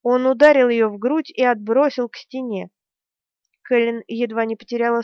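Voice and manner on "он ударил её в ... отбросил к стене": usual speaking voice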